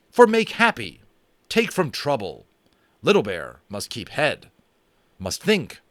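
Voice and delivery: lightly voiced proud warrior refusing; stern Indian chief. Little Bear refuses whiskey to Omri, lightly voiced stern warrior. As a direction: declare it in measured broken English.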